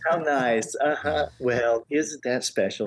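uninterested secretary. Retold or imitated. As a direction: humor the caller with drawn-out fake interest. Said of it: "whoever answered the phone secretary is going".

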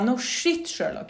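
dry it under your breath; sarcastic mutter. Retold or imitated. Sarkastisk tanke. (tyst sarkasm)

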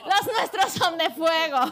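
laughing gloat. Real, not acted. Gloating at enemy's horses.

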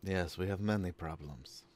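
very soft, calm reply; quiet. Acted. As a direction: murmur it like a monk. Quiet meditative character reply.

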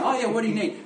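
acted-out casual helpfulness; unsuspecting big guy. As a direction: play the friend innocently offering help. Voices unsuspecting Jeff before the ambush.

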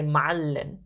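ma'allin stressed before the final syllable; stress earlier. Shown as a demonstration. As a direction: lean on the middle of ma'allin, not the ending. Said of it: "more of a stress earlier in the word".

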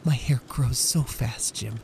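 slow, smiling through tears; tearful smile. Acted. Wife comforting husband through tears, slow. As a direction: brave and tender. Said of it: "with dim eyes and a smile".

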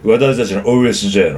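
deep growling singer impression; a singer's voice. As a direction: drop way down into a husky singer impression. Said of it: "そんな渋い声でしたっけ？".

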